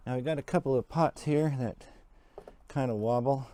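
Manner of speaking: muffled through a face mask; talking with a mask on. Real, not acted. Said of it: "excuse the mask, but I'm going to talk a little bit with it on".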